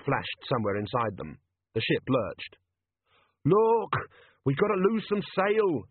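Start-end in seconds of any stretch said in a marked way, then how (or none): 3.5-5.8 high-pitched urgent shout; panicky shout. A narrator's reading. Captain begging to lose sail, high urgent shout. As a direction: call out in alarm, pitch up high. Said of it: "shouted Jenkins".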